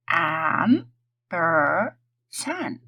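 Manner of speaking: And per san split apart slowly; sounding out syllables. Shown as a demonstration. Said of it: "sound them out".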